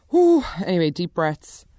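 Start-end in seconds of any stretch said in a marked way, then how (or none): 0.1-0.4 much higher, louder exhale of relief; loud whew. Real, not acted. Calming down after ranting about Susie, loud whew. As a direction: blow out the rant in one loud whew.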